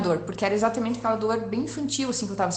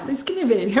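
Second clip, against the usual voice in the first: ordinary talk, nothing marked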